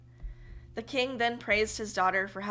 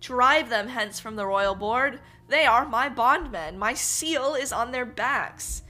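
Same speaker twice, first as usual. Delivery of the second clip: raised, slow and ringing appeal to the king; slow, louder proclamation of a wronged servant; bold cry; 2 semitones higher, 5 dB louder than usual. Acted. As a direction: declare it loud and measured before the court. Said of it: "Then the lad cried".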